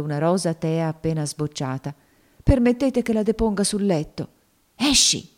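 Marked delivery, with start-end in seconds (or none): 2.4-4.3 put-on pleading girl. A narrator's reading. Topsy asking to lay the rose on the bed, pleading. 4.8-5.3 higher, sharp "Esci!"; more imperious. A narrator's reading. Maid Rosa ordering Topsy out, more imperious. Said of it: "con voce anche più imperiosa".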